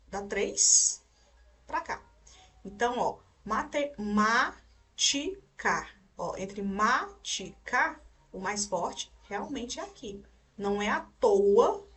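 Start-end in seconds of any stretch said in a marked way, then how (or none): 4.0-5.9 maticar drawn out slowly, syllable by syllable. Shown as a demonstration. Teacher showing which syllable is strongest, maticar slowly sounded out. 6.6-8.0 maticar slowly split into its syllables. Shown as a demonstration. Teacher comparing syllable strength, maticar slowly sounded out.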